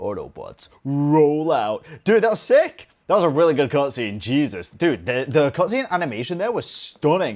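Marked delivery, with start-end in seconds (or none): 0.0-1.9 cartoon robot leader character voice. Reacting to a game cutscene, quoting with an Optimus Prime voice. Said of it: "broke out that Optimus Prime voice".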